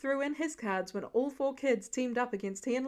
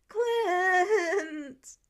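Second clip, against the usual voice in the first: high, loud drawn-out yell of the name; indignant shout; 6 semitones higher, 6 dB louder than usual. A narrator's reading. Peter yells at Clint for ignoring him, loud indignant call. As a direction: call out in mock outrage.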